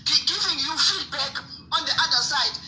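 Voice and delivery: real exasperation, pitch climbing; boiling, exasperated. Real, not acted. Caller complains to host about disorganised fighters, boiling with frustration. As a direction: vent heated frustration at the disorder. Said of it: "I'm boiling here".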